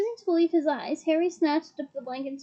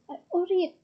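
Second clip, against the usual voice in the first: fierce; 4 semitones higher, faster than usual. Acted. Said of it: "said Harry fiercely".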